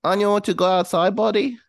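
put-on high-pitched doting baby voice; baby talk to a dog. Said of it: "like baby talk".

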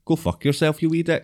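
mock Belfast lilt; Belfast accent. Shown as a demonstration. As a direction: toss it off in a put-on Belfast accent. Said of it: "do a Belfast accent".

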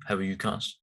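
flat robotic delivery. Pretend. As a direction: speak like a stiff robot. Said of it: "you were talking like a robot".

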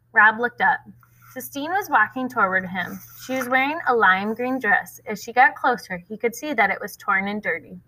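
steady read-aloud voice with voiced characters; story narration. A narrator's reading. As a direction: read the chapter to the class. Reads next chapter aloud.

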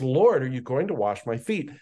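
a light touch of disbelief on Lord, rising at the end; mildly incredulous Peter. Retold or imitated. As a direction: Lord lifted as a half-asking protest. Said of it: "says with incredulity".

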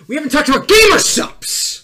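loud, high excited plug. Acted. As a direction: burst out with hype.

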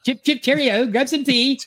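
mock goblin English. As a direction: play a silly goblin doing a British accent. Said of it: "It's like goblin English".

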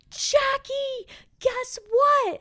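high, squealed imitation of a drunk roommate; drunk, excited friend. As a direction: mimic her bursting in with big news. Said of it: "She's so drunk. She's so excited".

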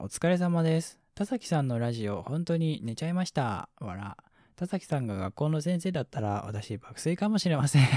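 lightly lifted listener-message read; コメント読み上げ. Acted. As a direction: read a fan's message out politely and brightly. (お便りを読み上げる調子)

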